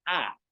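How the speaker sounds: "A" abierta y sostenida, boca bien abierta; vocal A modelada. Shown as a demonstration. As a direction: di "A" como modelo para el alumno. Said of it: "el sonido de la A". ("A" muy abierta, de demostración)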